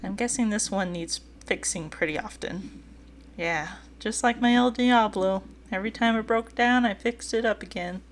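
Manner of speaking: put-on lightly southern-accented character voice; easygoing southern accent, lightly put on. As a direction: give him a touch of a southern accent.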